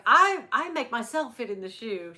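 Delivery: loud mock-French insistence; bad French accent. Imitating singer insisting on the shoe, bad French accent. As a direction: push it out in a badly faked French accent. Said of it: "she's like".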